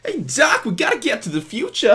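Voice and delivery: very high, loud, hammed-up impression; bad film-hero voice sliding into another actor's; overdone squeaky impression, urgent; Marty McFly. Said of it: "Now he's Christopher Walken".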